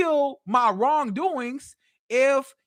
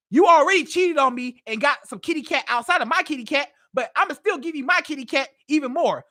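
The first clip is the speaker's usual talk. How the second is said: cocky cheating man. Retold or imitated. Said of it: "What I'ma think as a man is".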